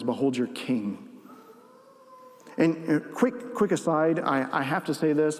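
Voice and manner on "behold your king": a hint of scorn, lower and softer; mild mocking. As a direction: quietly sneer Behold your king. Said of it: "Now he mocks him and says".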